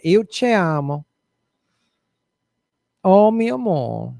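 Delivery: mock romantic. Acting out a romantic phrase.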